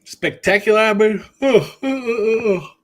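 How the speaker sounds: real joyous oh-oh-oh; excited cheer. Real, not acted. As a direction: hype it up like a winning ticket. Celebrating a winning bet.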